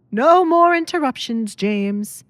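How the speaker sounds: an irritated baron snapping at his butler; sharp rebuke. Acted.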